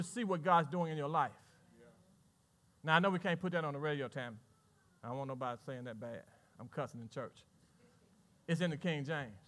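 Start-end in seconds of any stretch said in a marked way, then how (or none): 2.8-9.4 quiet aside. Real, not acted. Quick aside to the radio man.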